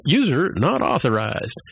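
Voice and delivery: slow, lightly imitated computer; a hint of a slow computer announcement. Computer refusing Boimler, lightly voiced slow system reply. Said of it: "the computer says".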